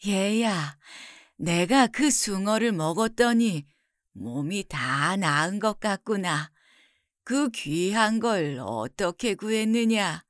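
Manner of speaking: put-on slow, gentle elderly mother voice; recovered mother. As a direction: wonder tenderly, slowing toward the end.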